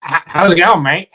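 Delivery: put-on an outsider's stab at an Australian accent; stumbling fake Australian; mock Australian accent. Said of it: "I think you're supposed to say".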